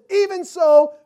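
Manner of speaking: high, loud, slow Lord Jesus; ringing call for Jesus to come; fervent prayer. Acted. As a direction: plead with full heart.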